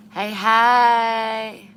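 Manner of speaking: sharp loud call to dog; shouting. Real, not acted. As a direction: yell to stop him.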